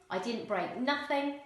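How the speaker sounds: "I didn't break nothing" said casually; casual dialect, "break nothing"; non-standard English. Shown as a demonstration. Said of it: "non-standard English".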